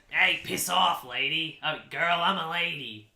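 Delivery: lightly voiced crude alien telling her off; rude alien. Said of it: "he goes".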